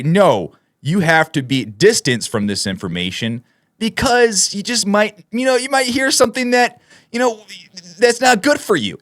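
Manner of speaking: put-on high, patronizing voice talking down to a child; mock the government like a nanny scolding a kid; condescending official. Vlogger mimicking officials who treat viewers like children, patronizing. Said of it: "treat you as if you are a child".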